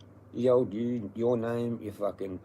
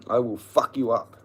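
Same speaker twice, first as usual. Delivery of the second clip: furious threat; 7 dB louder than usual. Real, not acted. Threatening the landlords.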